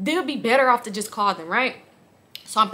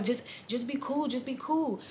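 imitated hushing; 2 semitones higher, 11 dB quieter than usual. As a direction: coax under your breath, imitating him. Retold man hushing her.

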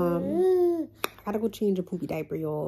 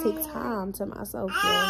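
near tears; 4 semitones higher than usual. Real, not acted. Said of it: "I'm about to cry".

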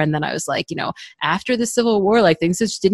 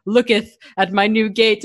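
mock Mister Darcy talk; 4 semitones higher than usual. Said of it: "in Mister Darcy talk".

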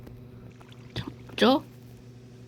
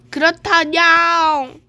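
louder cat villager reply; 4 semitones higher, 7 dB louder, much slower than usual. Pretend. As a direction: answer like a cartoon cat.

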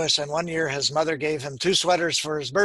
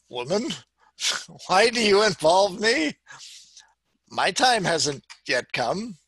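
mildly exasperated son answering his mother; a touch of protest, words spaced out; lightly voiced protest; 4 semitones higher than usual. A narrator's reading. Pastor reads Jesus answering his mother, mild protest.

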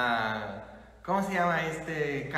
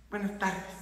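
soft, unenthusiastic mumbled greeting; imitating a half-hearted congregation; listless greeting; 7 dB quieter than usual. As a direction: greet back without any will. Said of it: "Y, y sin ganas".

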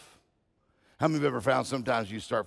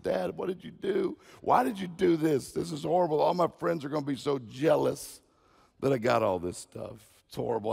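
put-on higher-pitched whining kid, no real tears; mock crying; 3 semitones higher than usual. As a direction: complain like an upset child, lightly acted. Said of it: "started crying".

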